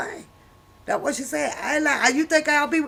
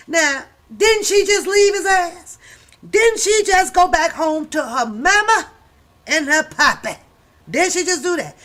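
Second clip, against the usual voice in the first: higher and louder, hammering each didn't; loud mocking questions; 5 semitones higher, 6 dB louder than usual. Real, not acted. Ranting at the author for going back, loud and mocking. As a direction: call her out in disbelief.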